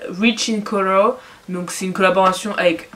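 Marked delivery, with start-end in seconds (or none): 0.1-1.2 playful put-on English accent on the name; overdone English pronunciation, for fun; exaggerated English accent. Shown as a demonstration. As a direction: ham up the English accent a little. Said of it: "J'adore faire l'accent anglais".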